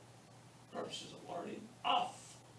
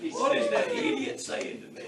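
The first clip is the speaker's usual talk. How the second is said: much higher, louder, laughing outburst; mock bewilderment; 13 semitones higher, 7 dB louder than usual. Teacher joking amid the class's laughter, high mock bewilderment. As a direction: squeal it in mock disbelief, drawing out the first word.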